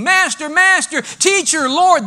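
high, loud panicked screams; frightened fishermen screaming for Jesus in the storm; screaming over each other. Acted. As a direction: yell each name in panic. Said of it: "disciples screaming".

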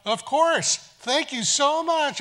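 high, slow, gushing gratitude; gracious thanks. Retold or imitated. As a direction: thank them sweetly and slowly. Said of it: "And she thought".

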